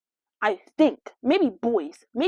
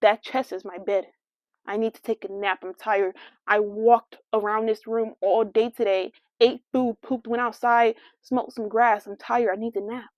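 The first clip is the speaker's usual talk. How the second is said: voicing the dog; 3 semitones lower than usual. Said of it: "be like".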